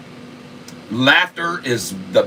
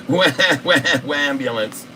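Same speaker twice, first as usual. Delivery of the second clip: mock whining. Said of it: "LeBron imitation, just complain and act like a victim".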